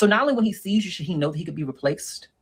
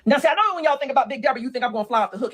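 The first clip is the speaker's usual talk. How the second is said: Big Deborah voice; 10 semitones higher, faster than usual. Acted. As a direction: announce yourself as a bold, brassy lady.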